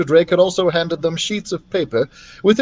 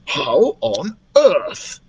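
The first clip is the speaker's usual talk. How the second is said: exclaiming; 5 semitones higher, much slower than usual. Acted. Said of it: "exclaimed Doctor Drake".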